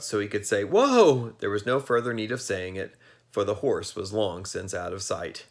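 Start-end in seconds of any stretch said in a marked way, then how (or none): 0.6-1.3 raised, louder call to halt; call to stop. A narrator's reading. Tip finally calling after the vanished horse, raised. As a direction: get the word out at last. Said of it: "from his throat".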